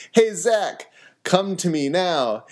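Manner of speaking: eagerly calling a student over, bright and high; excited call. Retold or imitated. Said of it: "And he's all excited".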